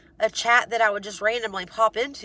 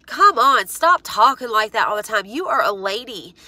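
scolding; 6 dB louder than usual. Real, not acted. Scolding Laura about her language.

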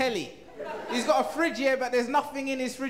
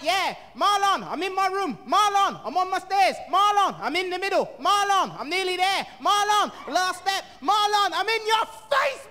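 much higher mock shouts of Marlon; mocking mum's calls; 9 semitones higher than usual. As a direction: mimic her calling, getting closer each step. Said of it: "I'm like".

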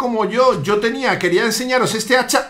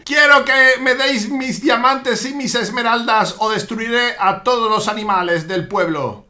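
slow villain cat making demands; acento malvado. Acted. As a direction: menace them slowly, pitch sinking at the end. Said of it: "acento malvado". (villano malvado, lento y amenazante)

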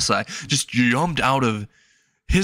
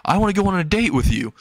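higher, fast, eager asking; eager girl voice; 6 semitones higher, faster than usual. Acted. Chasing girl asking for a date, higher and fast. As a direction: rush it out, bright and pushy.

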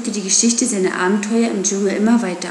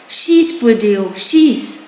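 shouted urging; 5 dB louder, much slower than usual. A narrator's reading. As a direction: urge him on like a frantic crowd. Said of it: "die Dorfbewohner schrien".

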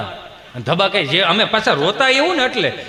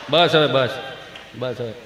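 low, soft mock consoling; hushing father; 7 semitones lower, 3 dB quieter than usual. Father quietens his own crying child, low hush.

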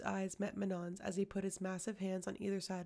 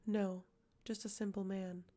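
monotone. Acted. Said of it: "No inflection, no sign of empathy".

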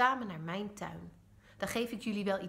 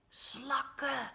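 higher, a quick eager idea blurted out; sudden excited call; 6 semitones higher than usual. A narrator's reading. Joris suddenly calls out his idea to the others, eager. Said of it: "roept Joris ineens".

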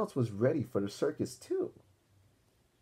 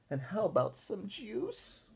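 put-on slow, pleading little-girl voice; milk it like a pretend invalid; whiny D W; 10 semitones higher, 3 dB quieter, slower than usual. D W asking grandma for a bath, slow and whiny. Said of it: "asked D W".

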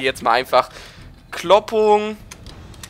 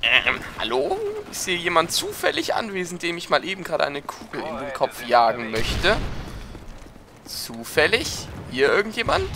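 put-on drunk voice; 2 semitones higher, 3 dB quieter than usual. Shown as a demonstration. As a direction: play it sloppy drunk, dragging words. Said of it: "das würde nämlich ungefähr so klingen".

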